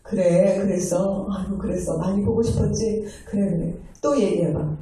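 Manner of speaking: gently acted comforting of a child; soothing mother. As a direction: reassure them as if holding them close. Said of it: "이렇게 품어주면서".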